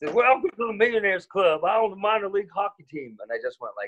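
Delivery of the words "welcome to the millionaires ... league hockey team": very high-pitched put-on Texas man accent. Retelling what a man said to him, imitating a Texan guy. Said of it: "like a Texas kind of guy".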